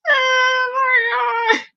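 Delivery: drawn-out, high, loud oh my God; stretched-out loud gasp of disbelief; loud shocked cry. Real, not acted. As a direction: let it burst out in disbelief. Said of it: "You yelling like a motherfucking ogre".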